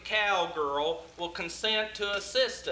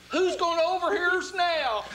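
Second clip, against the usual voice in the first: raised, higher-pitched voice; unguarded outburst; 7 semitones higher, 3 dB louder than usual. Acted. Plotter to whispering partners, unguarded outburst. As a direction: throw off the hush and speak up. Drops the whispering, nobody can overhear.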